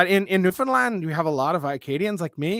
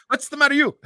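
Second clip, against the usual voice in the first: loud, high mock challenge; mock confrontation; 9 semitones higher, 6 dB louder than usual. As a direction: playfully call someone out. Acting out a confrontation.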